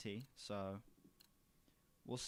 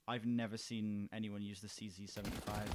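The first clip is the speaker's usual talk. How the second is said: ordinary delivery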